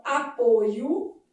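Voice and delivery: closed ô in "apoio". Shown as a demonstration. Teacher repeating the noun's timbre, closed O. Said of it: "apresenta a vogal fechada".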